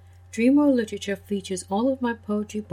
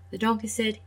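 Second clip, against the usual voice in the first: put-on gentle storyteller voice for kids; children's story reading. A narrator's reading. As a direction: read it like a bedtime tale. Reads fairy tale to children.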